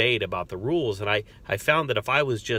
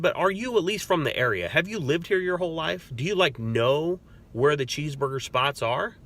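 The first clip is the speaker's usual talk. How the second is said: much higher, bright curious questioning; eager curious questions; 5 semitones higher than usual. Retold or imitated. Officer to angry inmate, much higher, eagerly curious questions. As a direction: keep him talking with eager questions. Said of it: "I said".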